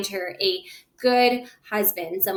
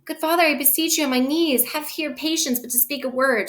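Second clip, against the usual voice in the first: higher-pitched Juliet and her mother; pleading Shakespearean reading; 6 semitones higher than usual. Acted. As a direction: read the old verse up high, imploring.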